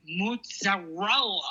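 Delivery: mozzarella said slowly, every syllable; careful enunciation. Shown as a demonstration. Showing the hosts her effort, slow careful mozzarella. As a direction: labour over each syllable of mozzarella. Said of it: "slow enough so I can say".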